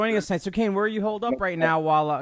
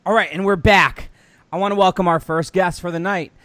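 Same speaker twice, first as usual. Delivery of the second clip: bright event host; 4 dB louder than usual. Acted. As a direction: announce the guest like an MC. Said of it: "give it up for Stutter Kane".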